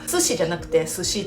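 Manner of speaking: 寿司 said twice with contrasting pitch accent; word accent demo. Shown as a demonstration. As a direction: contrast the two tunes of 寿司.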